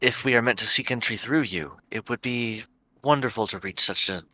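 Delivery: measured, courteous plea with careful pauses; respectful formal address. Acted. Adventurer assures the ancient guardian of respect, measured and formal.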